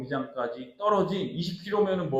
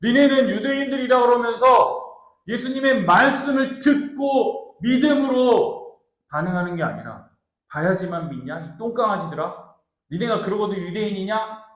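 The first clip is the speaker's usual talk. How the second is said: angry Jesus; 3 semitones higher, 4 dB louder than usual. Acted. Jesus scolding Jews who believe only miracles, angrily. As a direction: rebuke them with mild acted anger. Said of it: "예수님이 지금 화내고 계신 거예요".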